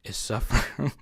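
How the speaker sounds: hushed, solemn infomercial read; soft mock-grave ad voice on the edge of laughing. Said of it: "You know the infomercials".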